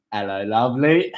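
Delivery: lightly put-on English accent; mock English accent. Showing friends an English accent on request, playfully mock. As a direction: greet in a pretend English accent. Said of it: "English, English accent".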